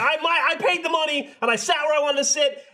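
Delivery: I paid for this seat, so back off; indignant rant. Real, not acted.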